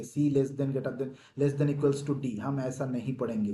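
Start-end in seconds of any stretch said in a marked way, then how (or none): 0.0-2.4 slow demo reading. Shown as a demonstration. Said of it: "ऐसे नहीं पढ़ेंगे".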